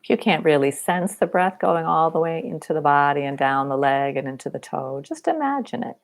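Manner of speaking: unhurried body-scan guidance with long pauses; guided meditation. Real, not acted. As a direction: guide them gently through a body scan.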